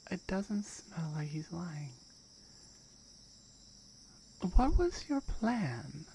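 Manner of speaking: cold, measured guardian questioning an intruder; stern guardian. Acted. Guardian questions the reckless climber, coldly stern.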